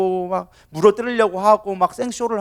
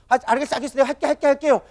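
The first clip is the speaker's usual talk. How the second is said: higher-pitched, grudging giving in; reluctant compliance; 5 semitones higher, faster than usual. Acted. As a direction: agree just to end the nagging. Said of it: "억지로 어쩔 수 없이 순종하긴 하는 것처럼". (억지로 마지못해 따르는 말투)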